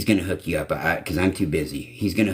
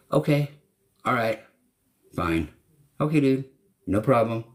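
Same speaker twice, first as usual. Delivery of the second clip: jumpy, higher "okay" lines, caving in with a shrug; hammed-up pushover finally caving; mock giving in; 5 semitones higher than usual. Himself imagined giving in to a persistent scammer, mock caving in.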